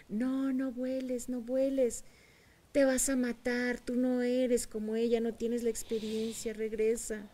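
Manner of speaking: high, loud, frantic pleading cry; slow, panicked calls begging the eagle to stay; mother hen shouting. Acted. Mother hen calling to the eagle not to fly, frantic high shouts. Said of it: "la mamá gallina le gritaba".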